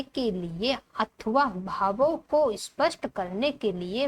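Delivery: slow, measured reading; textbook read-aloud. Acted. Teacher reading a definition to the class, slow measured read-aloud. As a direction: read it out slowly, phrase by phrase.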